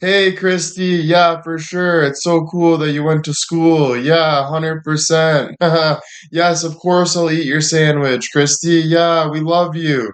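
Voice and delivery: put-on, all-fake sweetness, high, polite gushing. Acting out fake politeness to an aunt no one likes: put-on fake politeness. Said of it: "we're kinda like".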